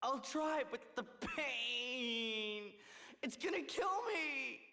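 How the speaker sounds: slow, hammy suffering moan; fake pain act. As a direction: ham up the agony. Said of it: "your lame poor me act".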